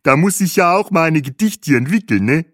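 high-pitched guide voice with foreign-tinged German; tour guide. A narrator's reading. Guide jokes to the poet about writing verse, high and cheery. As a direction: chirp it with a tag question.

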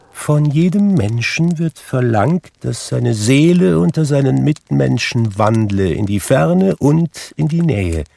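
high, loud, grave spirit pronouncing judgment; solemn ghost. A narrator's reading. Marley's ghost lectures Scrooge, grave and doomed. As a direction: speak as a doomed spirit delivering a sentence.

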